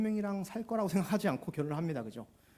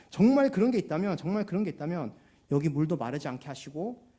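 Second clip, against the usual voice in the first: mildly cynical; 4 dB louder than usual. Retold or imitated. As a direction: dare him to prove it, with a touch of sarcasm. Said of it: "이렇게 약간 냉소적으로 얘기를". (약간 냉소적으로 비꼬듯이)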